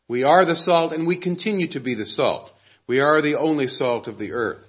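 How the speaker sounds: "are" leaned on in each line; preacher pressing the word "are" to a congregation; stress on are. Shown as a demonstration. Pastor stresses "are" so the church hears it. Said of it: "The verb here stresses being".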